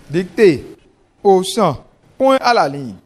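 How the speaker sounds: slow, deliberate dictation; dictating. Shown as a demonstration. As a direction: dictate clearly to the class. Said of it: "on écoute attentivement la dictée".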